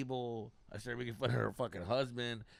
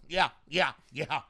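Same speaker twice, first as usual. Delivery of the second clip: mock eager heckler, squealing yeah yeah high and loud; the eager front-row guy during the jokes, mock-squealing; overeager fan; 12 semitones higher, 8 dB louder, slower than usual. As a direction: ham up the guy who agrees too much. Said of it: "agreeing to everything you're saying".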